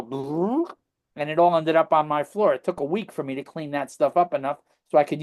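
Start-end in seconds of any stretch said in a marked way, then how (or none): 0.0-0.7 imitated belly rumble. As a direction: buzz the lips like a rumbling belly. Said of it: "you could see the belly go".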